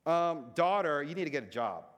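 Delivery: dad throwing his daughter's sarcasm back; playful parental comeback; mock-sarcastic retort. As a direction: mimic her "Um" opener, loud then dropping. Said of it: "when she's being sarcastic".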